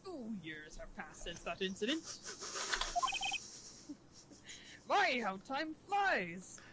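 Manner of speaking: drawn-out cartoon crab boss; lightly voiced old sea captain; Mister Krabs. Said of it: "the Mister Krabs voice".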